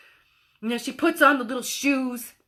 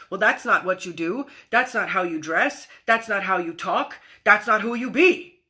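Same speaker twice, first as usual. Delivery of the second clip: limiting voice; 4 semitones lower than usual. Retold or imitated. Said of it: "the limitations of".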